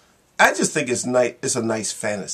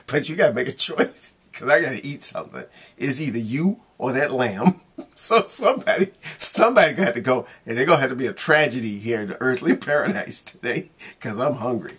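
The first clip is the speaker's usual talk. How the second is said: hungry lion; 2 semitones higher, 3 dB louder than usual. Retold or imitated. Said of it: "The lion turns to the little girl and says".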